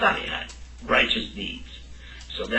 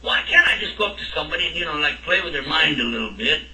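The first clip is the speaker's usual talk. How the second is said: much higher, incredulous "why" of a doubter; protesting student; 3 semitones higher than usual. Pretend. Teacher playing a questioning student, higher incredulous protest. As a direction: object like a puzzled student, half laughing.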